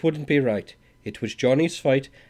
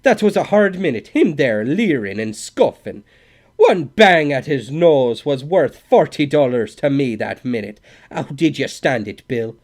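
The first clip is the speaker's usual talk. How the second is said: loud, higher wail; 5 semitones higher, 10 dB louder than usual. A narrator's reading. Scully to the cowboy after the Swede leaves, loud wail. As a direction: wail out the frustration. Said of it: "wailed Scully".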